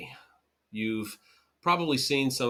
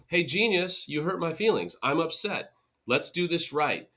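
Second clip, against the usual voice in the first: higher, sarcastic put-down; sarcastic retort; 5 semitones higher than usual. Retold or imitated. Hurt partner sarcastically correcting a fake apology, higher. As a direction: needle them with sarcasm.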